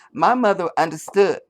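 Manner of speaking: half-hearted Harris impression, clean start; mock Kamala Harris. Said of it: "I'm sure she said".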